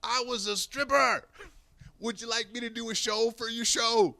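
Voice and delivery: retelling the Vietnam veteran's stripper offer; veteran's reply. Retold or imitated. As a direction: deliver it like a coy, proud old stripper. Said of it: "He says".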